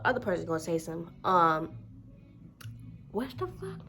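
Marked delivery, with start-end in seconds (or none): 3.1-3.8 incredulous. Real, not acted. Outrage at clerk's excuse.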